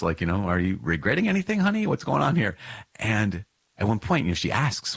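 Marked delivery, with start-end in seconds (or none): 0.5-2.6 mildly anxious wife, pitched up; lightly acted worried query to a spouse; retold nervous questioning. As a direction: ask it higher, gently probing, a touch nervous. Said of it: "she's getting kind of nervous".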